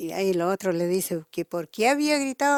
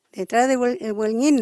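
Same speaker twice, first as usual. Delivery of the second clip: mild mock shout; calling out. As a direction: still raised across the canal. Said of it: "le grita y le dijo".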